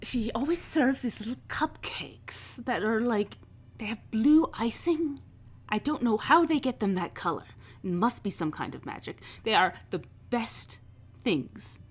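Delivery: effusive socialite-like enthusiasm; gushing boss Vera. Acted. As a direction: gush over a favourite treat. Plays Vera gushing over parties.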